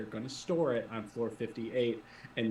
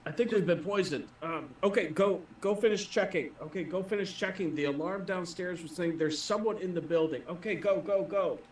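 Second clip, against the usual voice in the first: higher, urgent poisoned guard waving them on; hurried sick guard; 7 semitones higher than usual. Acted. Game master voices the poisoned guard sending the team upstairs, hurried urging. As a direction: rush them past, clutching your stomach.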